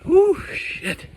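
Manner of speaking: high loud yelp of shock; cold shock yelp. Real, not acted. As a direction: yelp it out, freezing. Gasp leaving the ice bath.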